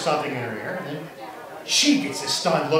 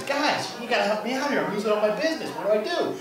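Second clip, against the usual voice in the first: lightly acted, higher-pitched plea; a hint of desperate appeal for help; pleading businessman; 5 semitones higher than usual. Losing business to the friars, pleading for help.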